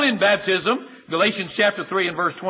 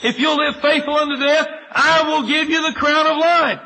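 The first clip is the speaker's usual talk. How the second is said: God's promise; 6 semitones higher, 4 dB louder than usual. Retold or imitated. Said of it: "He said".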